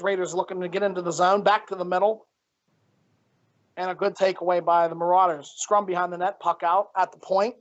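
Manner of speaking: hockey commentator calling the action; live play-by-play. Real, not acted. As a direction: call the puck's moves as they happen. Calls live game play-by-play.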